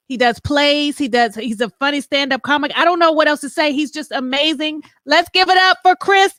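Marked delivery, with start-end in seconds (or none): 5.0-6.3 drawn-out, loud hype shout; hype intro. Real, not acted. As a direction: bring him on like a game-show host. Host introducing guest.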